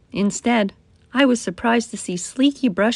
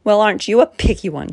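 sniffy; 3 dB louder, faster than usual. Acted. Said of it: "she sniffed".

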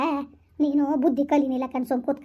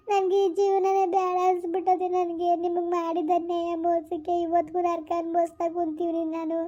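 tearful pleading; 3 semitones higher than usual. Acted. Wife begs husband's forgiveness.

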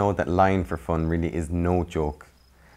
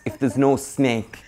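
scolding meerkats; 7 semitones higher, 5 dB louder, slower than usual. Acted. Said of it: "repeated the other meerkats".

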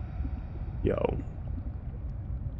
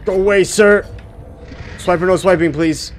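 mock scolding; 8 semitones higher, 4 dB louder than usual. Shooing a fish away.

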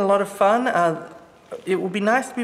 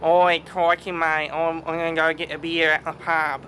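mock ocker Aussie; 2 semitones lower than usual. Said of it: "not everyone in Australia is like".

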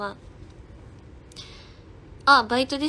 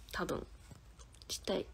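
whispered wish; 3 semitones lower, 15 dB quieter than usual. Real, not acted.

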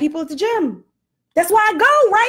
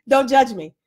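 laughing; 3 dB louder than usual. Real, not acted. Laughing at her cupcake.

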